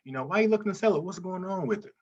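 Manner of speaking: curious friendly seller call; friendly rapport. Shown as a demonstration. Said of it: "you wanna build some rapport".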